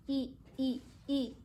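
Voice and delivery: short, separate "I" sounds; teacher modelling a short Spanish "i"; isolated letter sound. Shown as a demonstration. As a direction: say "i" as a pure vowel, three times evenly. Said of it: "los sonidos".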